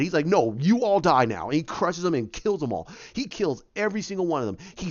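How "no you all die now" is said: slow, mildly angry mock threat; mad Hulk threat. Hulk turns on the Black Order, slow mock anger. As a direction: say it slowly, playing a mad brute. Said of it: "He's like, he's mad".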